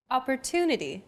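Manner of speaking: "Opportunity" with a longer, stressed "tu"; stress on third syllable. Shown as a demonstration. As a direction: lean on the "tu" of "Opportunity". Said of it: "The stressed syllable to in opportunity".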